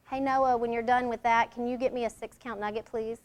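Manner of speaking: quiet, courteous ask to a coworker; polite soft request. Shown as a demonstration. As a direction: ask kindly, softly. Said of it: "Received better, yes?".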